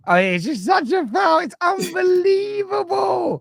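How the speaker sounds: high, slow drawn-out disbelief; incredulous. Real, not acted. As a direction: stretch it out in shock. Foul replay disbelief.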